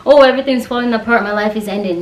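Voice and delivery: quick, hammed-up panic over a small problem; mock panic. Mocking the kind of worker who panics. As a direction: mimic someone falling apart, a bit rushed. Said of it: "I'm not the kind of person who's like".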